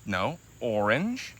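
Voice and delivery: slow, with orange lifting at the end; teaching correction. Real, not acted. Parent correcting toddler's colour, slow teaching voice. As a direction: draw out "orange" so it can be copied.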